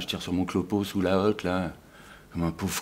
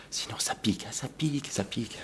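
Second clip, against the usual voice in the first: soft whining complaint; 2 semitones higher, 9 dB quieter than usual. Acted. Mimics partner complaining of stubble.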